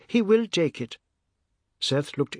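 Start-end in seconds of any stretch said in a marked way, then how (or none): 0.1-1.0 high, insistent cry; urgent raised voice. A narrator's reading. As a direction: call it out high and loud, pleading. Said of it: "she cried to Seth".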